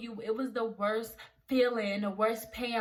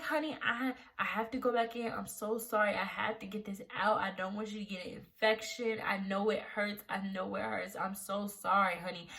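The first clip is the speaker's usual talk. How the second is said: gently voiced doctor, slightly lowered pitch; gracious apology; 2 semitones lower, 3 dB quieter than usual. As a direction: apologise softly and sincerely, imitating a kind doctor. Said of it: "she was very gracious about it".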